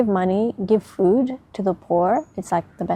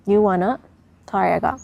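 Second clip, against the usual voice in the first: talking with something in mouth; words round a mouthful; mouth full; faster than usual. Real, not acted. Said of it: "got something in my mouth".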